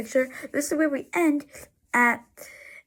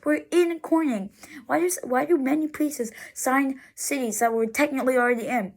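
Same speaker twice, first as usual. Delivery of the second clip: real mild exasperation; frustrated; 2 semitones higher than usual. Real, not acted. Road-trip narrator questioning signs for a city already reached, frustrated. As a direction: complain with a touch of frustration. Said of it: "I'm frustrated".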